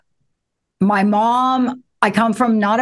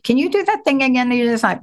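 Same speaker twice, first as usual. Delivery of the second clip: normal talking voice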